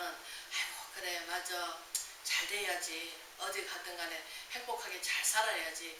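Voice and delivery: soft, low, slow half-whisper; tender blessing. Retold or imitated. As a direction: wish them well gently, almost under the breath. Voicing loving goodwill after grace. (낮고 느리게 속삭이듯 다정하게)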